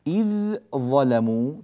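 "إذ ظلموا" with the dhal merged into a doubled "ظ"; tajweed demo of "إذ ظلموا"; assimilation demo. Shown as a demonstration. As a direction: say "إظّلموا". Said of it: "ويصير النطق بظاء مشددة".

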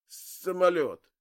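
gurgling through blood, slow and loud. Acted. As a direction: choke the word out past liquid. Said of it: "булькая произнёс Цезарь".

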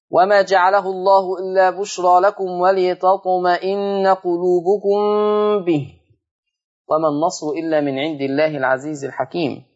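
teacher reciting the verse for students; Quran recitation. Acted.

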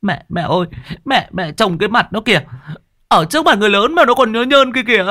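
put-on high, fast tearful child's whine; a scared boy tattling to mum; frightened boy whimpering to his mother. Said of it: "thì lại mếu máo".

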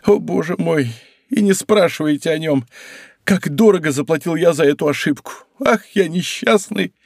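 pitiful innkeeper lamenting his mistake; plaintive lament. Acted. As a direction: moan over his misfortune. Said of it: "самым жалобным голосом".

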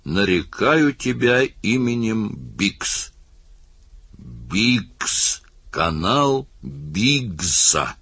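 put-on very slow drunken slur; slurred drunken mumbling. A narrator's reading. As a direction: drag it out, tongue tied with drink. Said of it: "заплетающимся языком бормотал Бикс". (медленно, пьяно, заплетающимся языком)

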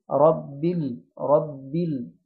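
"rabbil" in رب ال-, stopping on a vowelless l; slow "rab-bil", light l with no vowel; still lam. Shown as a demonstration. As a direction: join رب straight onto a resting l. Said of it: "عليها سكون".

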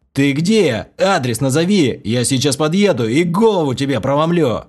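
loud angry threat; threatening. A narrator's reading. Narrator threatening the caller, loud angry threat. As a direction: promise to smash his head.

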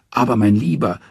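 high, coaxing trickster; Loki, wheedling. Acted. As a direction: sweet-talk him in a high voice. Loki pleads with dwarf.

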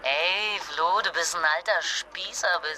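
slow, drawn-out teasing; drunken teasing. Acted. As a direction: tease him lazily. Neckt Partner betrunken. (betrunken neckend, langsam)

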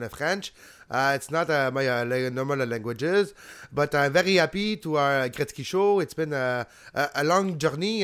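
halting rural Quebecois English; rural Quebecois accent. Acted. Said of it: "going with his rural Quebecois accent".

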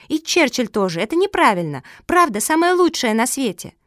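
high, loud indignant tirade; chattering child. Acted. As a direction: rattle on like an outraged little girl. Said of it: "затараторила Куки".

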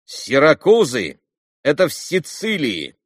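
put-on boy cutting in loudly; loud, curt explanation. A narrator's reading. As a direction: snap out the answer. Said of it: "отрезал вдруг громко Коля".

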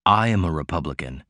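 casual, light remark; said lightly. A narrator's reading. Mister Morse to Martin, light and offhand. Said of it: "Mister Morse put in lightly".

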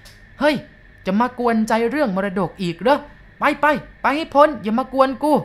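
put-on high, loud and slow, a cranky old man yelling down; fierce old man's shout. A narrator's reading. Old man upstairs yelling at the visitors, fierce and loud. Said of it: "เสียงแก่ๆข้างบนเกรี้ยวกราดดุๆถามว่า".

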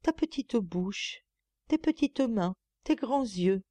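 slow, hushed lover's adoration; adoring murmur. A narrator's reading. Eugénie, lost in love, slow and adoring. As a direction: murmur it as if to an absent beloved. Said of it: "muettes paroles de douloureuse adoration".

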